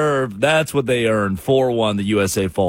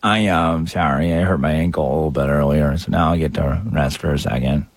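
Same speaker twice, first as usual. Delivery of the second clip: mock Pulisic; 10 semitones lower than usual. Mocking Pulisic interview.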